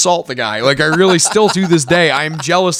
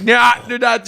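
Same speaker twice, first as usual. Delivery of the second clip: obnoxious shout; 8 semitones higher than usual. Retold or imitated. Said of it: "completely obnoxious to them".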